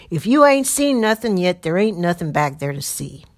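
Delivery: loud, impatient call from the wagon; a rough man waving his partner off; coarse patroller voice. Acted.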